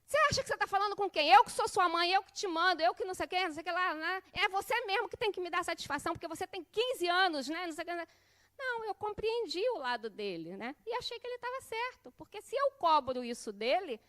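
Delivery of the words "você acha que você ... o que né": fast, loud, raised-pitch telling-off; hypothetical mother scolding her teenage son, fast and loud. Pretend. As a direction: lay down who's the boss. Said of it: "no telefone dizer".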